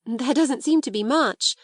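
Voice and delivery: a bubble of laughter under the words; half laughing. Acted. Sarah admits to Becky the attic is bare, half laughing. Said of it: "half laughing".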